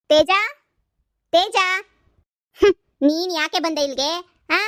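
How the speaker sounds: angry scolding. Acted. Mother scolds her daughter's ex for coming, angry and scornful. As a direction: drive the unwanted guest off your doorstep.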